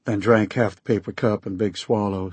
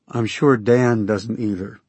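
soothing voice. Acted. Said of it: "I spoke in my most soothing voice".

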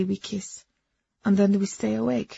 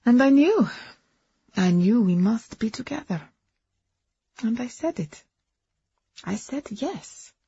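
excited; 5 semitones higher than usual. Acted. Agnes recounts saying yes.

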